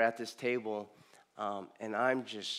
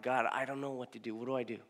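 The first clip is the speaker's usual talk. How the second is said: soft, quick, lost plea; quiet desperate prayer; 7 dB quieter, faster than usual. Retold or imitated. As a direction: murmur it fast like you're at a loss. Retold prayer on his knees.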